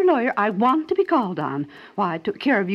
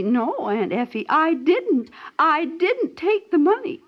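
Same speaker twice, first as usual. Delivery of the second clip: put-on high, slow, sweet little-boy voice; aunt voicing a sweet little boy's denial, high and slow; sweetly, as a little boy; 6 semitones higher, slower than usual. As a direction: imitate the child pleading innocence sweetly. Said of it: "And you said so sweetly".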